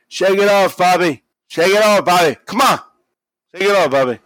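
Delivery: high, loud, strained cheering-on impression; Trump. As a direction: urge him on in a mock high shout. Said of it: "we get Trump encouraging Bobby".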